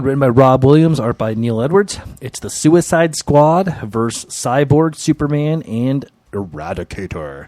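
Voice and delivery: comic-book announcer; dramatic announcer read. Acted. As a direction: hype up the title like an announcer. Reads issue intro dramatically.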